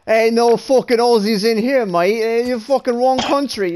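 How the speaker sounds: put-on playful Aussie accent; Australian accent. Player telling a mate no Aussies are here, mock Australian accent. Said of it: "bloody accent motherfucker".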